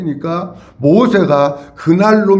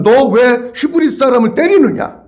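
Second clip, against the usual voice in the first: mildly indignant rebuke, pitched up; raised-pitch, hammed-up reproach; righteous indignation; 4 semitones higher than usual. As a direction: act out Moses challenging the attacker. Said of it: "의분이 일어나가지고".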